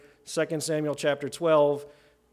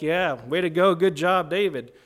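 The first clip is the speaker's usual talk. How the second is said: mock cheering; 2 semitones higher, 6 dB louder than usual. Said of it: "this is not like solidarity".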